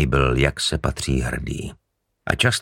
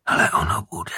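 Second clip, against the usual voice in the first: very high, eerie killer's voice; sinister reveal. Acted. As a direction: twist the knife with the last line. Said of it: "Konečně promluvil".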